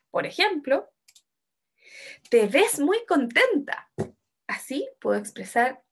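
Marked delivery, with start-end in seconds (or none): 2.3-3.9 slow, higher exclamation leaning on "ves"; exclamación con énfasis. Shown as a demonstration. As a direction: exclaim it emphatically, stretching "Te ves muy contenta". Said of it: "un poco con más énfasis". (con énfasis, alargando "ves" y "contenta")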